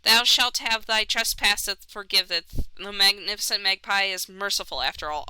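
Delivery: lightly voiced pompous bird; mock archaic magpie. Magpie granting pardon in mock archaic speech. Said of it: "I can't talk like that".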